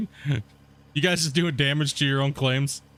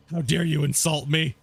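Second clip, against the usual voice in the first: mock offended. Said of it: "to get them, uh, fired up".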